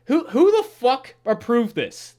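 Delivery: loud, high incredulous demand; getting mad. Real, not acted. Reviewer demands who approved the awful episode, getting mad. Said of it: "Dude, I'm getting mad".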